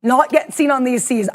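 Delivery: dramatic trailer narrator voice; eighties movie trailer voiceover. Acted. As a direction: announce it like an epic movie trailer. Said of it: "my weird eighties movie trailer voiceover".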